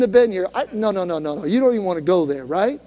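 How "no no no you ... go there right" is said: usual speaking voice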